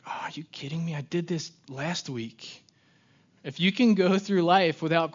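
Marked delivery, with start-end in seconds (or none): 0.1-2.6 put-on a lightly whiny teen griping about chores; mock whine as if asked to take out the trash; whiny complaint. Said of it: "without being like".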